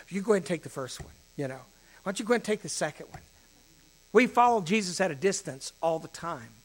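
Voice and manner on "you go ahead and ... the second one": nervous deferring. Retold or imitated. Acting out his shy witnessing.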